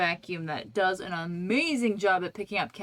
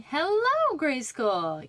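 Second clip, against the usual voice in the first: bright greeting; 5 semitones higher, 3 dB louder, much slower than usual. Real, not acted. Greeting a viewer.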